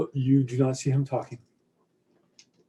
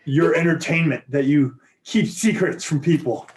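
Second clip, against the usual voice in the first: helium squeaky voice; 4 semitones higher than usual. Acted. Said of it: "in the helium squeaky voice".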